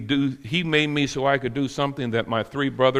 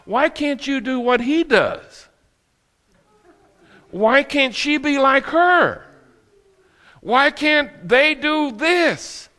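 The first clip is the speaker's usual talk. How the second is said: high, drawn-out complaint; mock nagging comparison; 11 semitones higher, 3 dB louder, slower than usual. Preacher mimics someone comparing people, high slow nagging. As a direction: plead it slowly, pitched way up.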